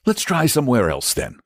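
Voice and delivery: high knight voice, patient. A narrator's reading. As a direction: humour the fussy dragon. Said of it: "said Saint George patiently".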